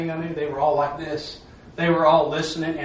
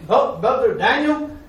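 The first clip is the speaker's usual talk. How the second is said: slow, higher, louder address; lightly acted awe, calling a brother slowly; awed deacon; 7 semitones higher, 5 dB louder, slower than usual. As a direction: put a touch of wonder into it. Deacon's amazed question retold.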